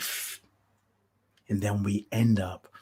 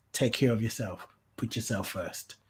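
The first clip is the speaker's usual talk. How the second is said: much softer, fading echo of the advice; soft repeat; 7 dB quieter than usual. Real, not acted. Host repeating advice to viewers, softly. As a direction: let it settle gently.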